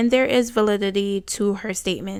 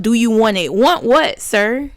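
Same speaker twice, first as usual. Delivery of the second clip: louder, mock repeat then sharp want what, sir; incredulous retort; 5 dB louder than usual. Real, not acted. Vlogger mocking the father's text, incredulous. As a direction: toss it back at him.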